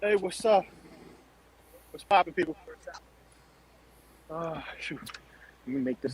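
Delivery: soft, breathless, winded, short of air. Greeting the others after running up four flights of stairs, out of breath. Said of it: "you sound like you're running out of breath a little bit".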